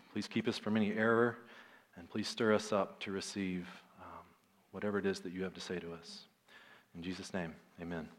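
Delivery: hushed prayer, fading at the close. Real, not acted. Leads congregation in prayer.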